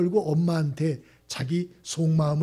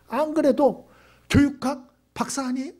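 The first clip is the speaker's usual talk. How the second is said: usual speaking voice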